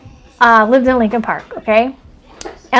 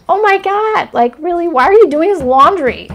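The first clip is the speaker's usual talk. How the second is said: incredulous; 5 semitones higher than usual. Retold or imitated. Retelling her own reply to grandma.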